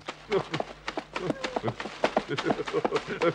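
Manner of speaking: long chuckle. Acted. Hector laughs at the frog's mishap, chuckling. Amused after the near accident.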